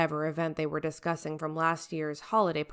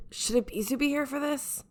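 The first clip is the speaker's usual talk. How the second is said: much higher pointed question; lightly voiced Hayate; 9 semitones higher than usual. Hayate reminding the captain of the absent deputy, mild pointed question. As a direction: ask it innocently but pointed.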